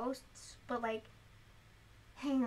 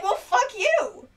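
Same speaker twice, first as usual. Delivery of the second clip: mock slow retort; 8 semitones higher, 9 dB louder, much slower than usual. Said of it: "you're like".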